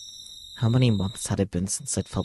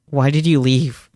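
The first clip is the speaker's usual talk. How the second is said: anguished cry; 5 semitones higher, 9 dB louder than usual. Acted. Pleading to vanished girl.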